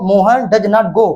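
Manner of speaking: slow dictation. Shown as a demonstration. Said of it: "slow dictation while writing".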